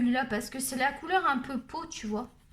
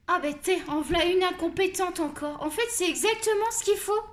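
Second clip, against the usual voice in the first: higher-pitched indignant ranting; exasperated; 5 semitones higher, 4 dB louder than usual. Real, not acted. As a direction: rail at the incompetence. Peste contre la vendeuse. (râler d'un ton exaspéré)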